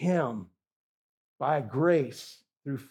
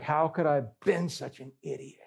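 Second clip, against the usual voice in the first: rising, despairing cry of regret; regretful wail; 7 semitones higher than usual. Retold or imitated. Damned soul lamenting in hell, rising despairing wail. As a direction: plead with yourself in anguish, pitch climbing. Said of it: "they're weeping because they're like".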